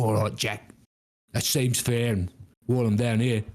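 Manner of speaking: agreeable Cockney devil; English accent. Acted. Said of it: "our evil folk have English accents".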